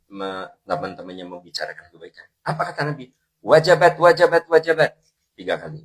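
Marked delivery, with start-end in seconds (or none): 3.4-5.0 loud, high triple declaration; emphatic proclamation. Retold or imitated. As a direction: proclaim it forcefully, word after word. Preacher proclaims the Prophet's triple declaration. (seruan lantang penuh penekanan)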